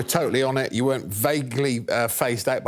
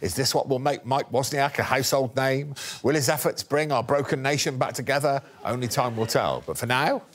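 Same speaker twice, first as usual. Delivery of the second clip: lightly dramatic trailer voice; mock documentary narrator. Host to the audience, mild mock documentary narration. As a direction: build the suspense like a documentary.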